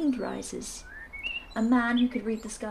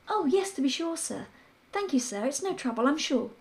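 higher, eager maidservant voice; a deferential maid, pitched up; maid's voice; 6 semitones higher than usual. Acted.

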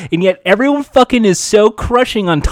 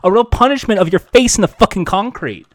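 mock tough-guy threat. To a film reviewer, a hammed-up angry threat. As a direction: play the bully threatening a rival critic.

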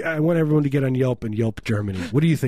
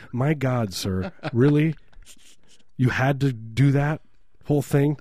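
mock disbelief; 3 semitones higher than usual. Retold reply to humourless host.

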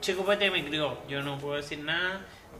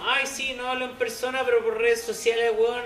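high, mocking impression of a mute guy; mocking imitation; 5 semitones higher than usual. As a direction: sneer it out in a whiny voice. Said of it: "Es como".

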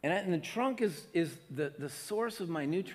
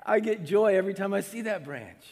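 fond Jesus; 2 semitones lower than usual. Pretend. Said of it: "Jesus is going".

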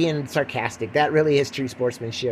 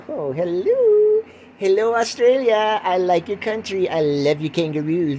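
mock celebrity greeting; 3 semitones higher, 4 dB louder than usual. Podcaster greeting Australian listeners, mock celebrity gushing. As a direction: gush grandly at an adoring audience.

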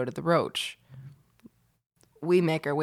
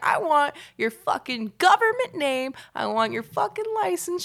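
higher, pushy mock of a drunk aunt; imitating Aunt Mickey; 8 semitones higher than usual. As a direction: lecture him in a high bossy aunt voice. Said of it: "She's like".

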